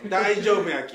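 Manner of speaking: loud Tosa-ben with a laugh; amused Kochi dialect. Real, not acted. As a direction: answer in a Kochi accent, laughing. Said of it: "ドンでも土佐弁ですよ".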